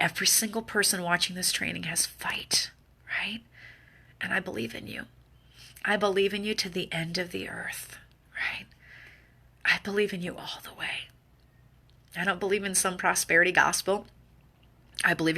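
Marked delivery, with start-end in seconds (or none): 4.2-11.1 hushed conviction. Real, not acted. Hushed heartfelt affirmation.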